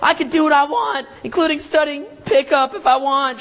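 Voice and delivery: high-pitched whiny rant at mom; hammed-up, high argument voice; mock yelling. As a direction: imitate a son yelling back at his mother. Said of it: "as you're yelling".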